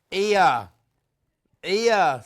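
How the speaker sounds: loud, h-dropped Black Country "Ear"; Black Country accent. Acted. Teasing over a misheard word, mock Black Country accent. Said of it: "it's that black country accent".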